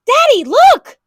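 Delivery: put-on high, loud eager child call; little girl calling her father; excited call. A narrator's reading. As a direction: call out to Daddy, thrilled.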